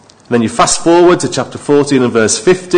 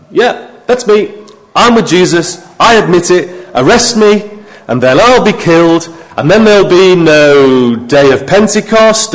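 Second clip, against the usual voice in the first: lightly voiced defiant Peter; a hint of Peter owning up, louder; preacher voicing an imagined brave Peter, mildly defiant; imagined bold Peter; 4 semitones higher, 4 dB louder than usual. Imagined Peter confessing boldly.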